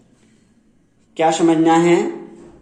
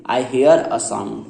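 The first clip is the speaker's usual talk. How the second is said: slow correct example; much slower than usual. Shown as a demonstration. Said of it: "क्या बोलेंगे".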